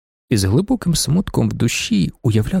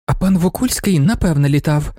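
deep conviction; 5 semitones higher than usual. Acted. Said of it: "тоном глибокого переконання".

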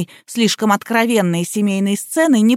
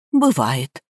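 low, resigned remark; philosophical; 7 semitones lower than usual. A narrator's reading. Housekeeper shrugs off the scandal, philosophical. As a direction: let it drop low, accepting it. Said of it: "философски заметила Рая".

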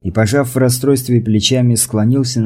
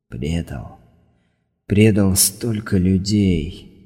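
grieving murmur; 4 dB quieter, slower than usual. Acted. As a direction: whisper the guilt to yourself. Inner guilt repeated.

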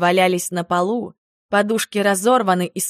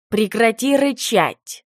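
stern; 3 semitones higher, slower than usual. Acted. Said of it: "строго произнёс оборотень".

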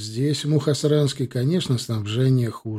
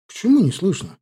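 high, louder retort on ПОЧЕМУ; objecting; 8 semitones higher, 5 dB louder than usual. A narrator's reading. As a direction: push back, surprised. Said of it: "возразил мне Славка".

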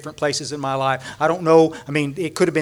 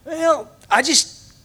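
humbly proud of himself; Dennis proud; 7 semitones higher than usual. Retold or imitated. Dennis telling the speaker what he said, shy pride. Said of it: "And he goes".

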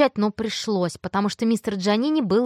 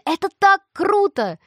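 high, loud excited chatter; thrilled; 6 semitones higher, 4 dB louder than usual. Acted. Tina gushing to Mia about being on TV, high and excited. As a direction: gush with delight.

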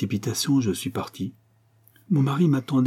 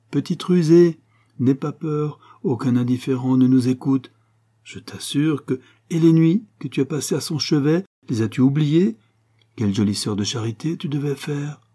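higher, knowing, playful probing; teasing sister; 4 semitones higher, 3 dB louder than usual. Acted. Sister pressing her about nights at the bedside, teasing. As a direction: coax and needle her, pitched up.

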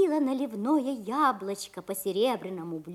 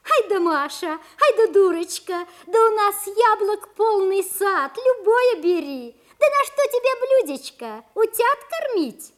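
teasing sisters, fast and mocking; mocking laughter; 7 semitones higher than usual. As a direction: jeer at her little sister. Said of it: "Засмеялись сёстры".

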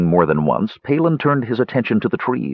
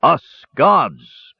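pompous high proclamation; proclaiming; 6 semitones higher, 4 dB louder than usual. A narrator's reading. Dwarf thumps his chest before the warriors, proclaiming pompously. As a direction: declare it grandly in a put-on voice. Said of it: "proclaimed the dwarf".

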